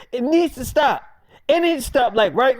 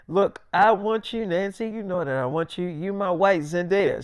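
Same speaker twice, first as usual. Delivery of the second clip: sweet-talking; 3 semitones lower, 5 dB quieter than usual. Retold or imitated. David sweet-talking Nancy.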